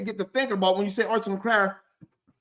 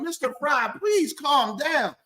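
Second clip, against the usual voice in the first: higher-pitched pleading with an unruly client; lightly voiced worker at wits' end; exasperated daycare worker; 4 semitones higher than usual. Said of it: "you're gonna be like".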